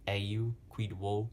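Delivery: "eu, quid wo" slowly as one stressed beat and two unstressed; dactyl scansion. Shown as a demonstration. Teacher scanning a Latin line, slow dactyl on "eu, quid wo". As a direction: scan "eu, quid wo" slowly, foot by foot. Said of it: "is a dactyl".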